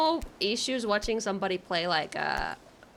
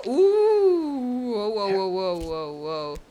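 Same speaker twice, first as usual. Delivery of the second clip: startled cry; 5 dB louder, much slower than usual. Real, not acted. Slipping in climbing game.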